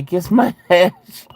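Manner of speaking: high, slow reading that breaks into a laugh; giggling through the epitaph she wants. Shown as a demonstration. Reading a viewer's urn wish, laughing through it. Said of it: "in all caps and in bold letters".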